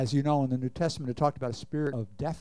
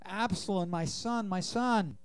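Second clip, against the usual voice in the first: higher, lamenting voice, a touch of weeping; grieving cry; 6 semitones higher than usual. A narrator's reading. Preacher reading King David mourning his son, grieving. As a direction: read it as a father's mourning cry. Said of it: "he cried".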